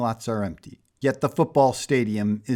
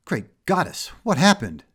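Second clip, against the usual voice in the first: startled; 6 semitones higher, 3 dB louder than usual. A narrator's reading. Power Princess alarmed.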